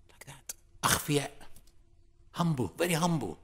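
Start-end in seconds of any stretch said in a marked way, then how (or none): 0.1-0.5 hushed demo of sitting silent; near whisper. Shown as a demonstration. Preacher showing the humble ones' silence, whispered. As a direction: drop to a whisper to show silence. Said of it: "They just sit".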